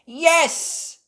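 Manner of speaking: very high, loud yes; happy cheer. Acted. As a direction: cheer as a group. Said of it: "everyone cheered happily".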